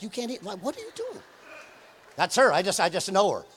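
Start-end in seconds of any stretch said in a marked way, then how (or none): 0.0-1.2 shocked what are you doing; incredulous. Retold or imitated. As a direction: voice jumps up in disbelief. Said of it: "I'm like".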